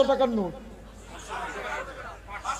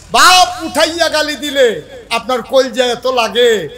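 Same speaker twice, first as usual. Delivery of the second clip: slow, drawn-out preacher's rebuke; raised, stretched sermon delivery; impassioned preaching; 4 semitones higher, 6 dB louder than usual. Real, not acted. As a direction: press the rebuke on the congregation, slowly.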